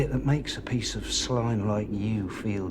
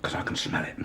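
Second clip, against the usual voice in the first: whispered menace; 4 dB quieter than usual. Acted.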